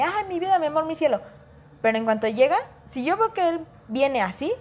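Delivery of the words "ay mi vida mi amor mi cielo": doting endearments. Retold or imitated. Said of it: "yo soy mucho de".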